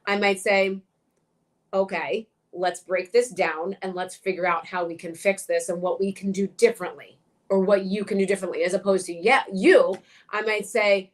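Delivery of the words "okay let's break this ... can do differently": measured, lenient coaching in an everyday pitch; patient, even-toned reassurance; gentle delivery. Shown as a demonstration. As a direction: talk someone on edge through it calmly. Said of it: "speaking to a woman who's just been completely traumatized".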